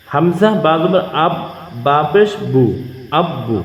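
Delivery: slow, measured chant of letter and vowel, dropping low on the final syllable; slow recitation drill. Shown as a demonstration. Teacher showing viewers how to read tashdid with pesh, slow drill chant. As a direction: spell it out like a Quran teacher, falling on আব্বু. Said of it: "আপনারা আমার সঙ্গে বলার চেষ্টা করুন".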